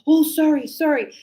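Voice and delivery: apologetic student. Retold or imitated.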